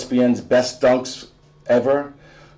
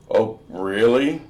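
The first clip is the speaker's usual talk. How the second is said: sly mom. Acted. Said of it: "sneaking up on us".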